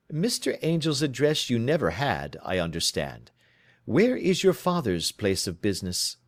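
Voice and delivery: lightly voiced, crisp questioning detective; brisk detective. Holmes questioning his client, crisply. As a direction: probe her story, brisk and in command.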